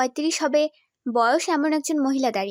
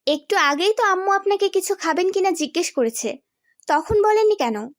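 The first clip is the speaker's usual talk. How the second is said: annoyed retort; 4 semitones higher than usual. Acted. Annoyed wife confronts husband.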